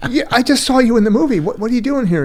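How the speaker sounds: high-pitched, incredulous fan; imitated astonishment. Customers recognise actor in coffee shop.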